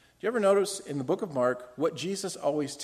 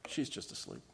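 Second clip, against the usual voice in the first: much lower and softer, hushed; Jesus softly reassuring the mourners; calm reassurance; 8 semitones lower, 9 dB quieter than usual. Acted. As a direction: gently wave the worry away. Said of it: "So he says".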